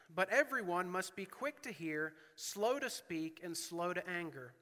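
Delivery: preacher reading James aloud; scripture reading. Acted. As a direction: read the verses with weight.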